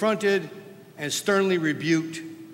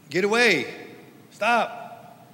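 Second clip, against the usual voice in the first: shooing away; 6 semitones higher, slower than usual. Retold or imitated. Preacher acting disciples shooing parents off, sharp. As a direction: push the parents back sharply.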